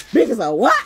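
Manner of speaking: loud challenge rising on WHAT; loud question. Real, not acted. Streamer questions between laughs, loud and punchy.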